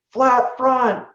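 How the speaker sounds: high, loud quick reply; shouted answer. Retold or imitated. Rider shouts back to the helpful crew member. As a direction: call back over the noise. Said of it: "And I was like".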